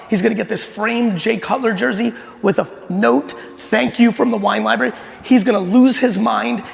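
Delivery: fast, eager rush of a man who thinks he's cracked it; retelling his own excitement, lively and quick; pumped. Retold or imitated. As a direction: replay the thrill of a big idea coming together. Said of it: "I'm, like, now pumped".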